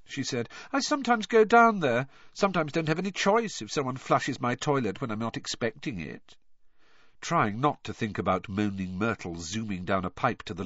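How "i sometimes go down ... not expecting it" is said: put-on high, whiny girl ghost; Myrtle's ghost voice. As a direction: pitch up into a mopey schoolgirl ghost.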